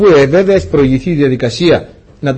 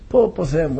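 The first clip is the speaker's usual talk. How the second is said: hushed despair; 7 dB quieter than usual. Retold or imitated. Told his licence is taken.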